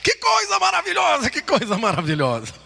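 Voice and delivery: high amazed exclamation, dropping on the repeat; imitated excited cry. Imitating the Indian seeing the cinema screen, crying out amazed. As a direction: cry out high in wonder, then come down. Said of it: "ele começou a gritar".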